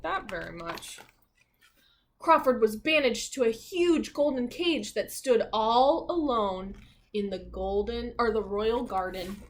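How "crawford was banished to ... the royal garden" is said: lively, expressive storybook narration; reading to children. A narrator's reading. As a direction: read it like a bedtime picture book.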